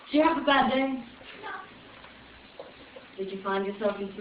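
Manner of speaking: put-on Irish accent for a chat. Shown as a demonstration. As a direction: chat to the crowd in a light Irish lilt. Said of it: "I'll do Irish".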